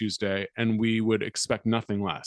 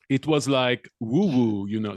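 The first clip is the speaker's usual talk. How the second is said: put-on half-hearted, slow stab at a Russian accent; bad Russian accent. Host reading a Russian passenger's quote in a failed Russian accent. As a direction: fumble a Russian accent, slowly. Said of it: "sorry, I can't do a Russian accent".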